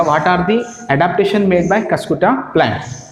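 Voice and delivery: very slow, word by word for notes; slow dictation. Shown as a demonstration. Teacher to students copying the question, slow dictation. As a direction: read the question out slowly so students can write. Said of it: "तो question ऐसा बनेगा".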